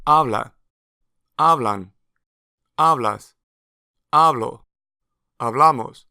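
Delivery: "Habla, hablan, hablas, hablo" stressed on the root syllable, then "hablamos" stressed on the ending; root stress demo. Shown as a demonstration. Teacher to learners, clear stress drill. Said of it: "The stress lines up in the root until the last form when it jumps over into the ending".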